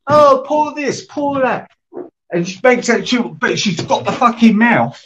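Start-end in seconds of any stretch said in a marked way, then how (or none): 0.1-1.7 high, slow sneering mimicry of the others; mock them in a high whiny singsong; mocking quote. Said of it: "they all say".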